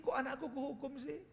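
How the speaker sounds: high-pitched, mildly pained questioning; sad parent's lament. Acted. Parent questioning their own punishment of the child, mildly sad. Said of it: "kita juga sedih".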